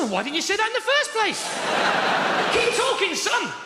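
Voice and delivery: sarcastic. Retold or imitated. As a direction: play it falsely keen, dripping sarcasm. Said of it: "'cause he didn't get the sarcasm".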